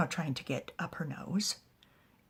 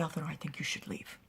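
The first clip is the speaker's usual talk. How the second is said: quick, soft, tightly controlled; restrained anger; 3 semitones lower, 7 dB quieter, faster than usual. Acted. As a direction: hold back fury and speak quietly. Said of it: "is extremely angry".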